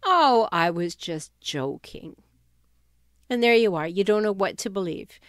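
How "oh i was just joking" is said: lower, slower, lightly voiced brush-off; a hint of the smug joker shrugging it off; imitating a dismissive excuse. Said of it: "A passive-aggressive person will frequently say".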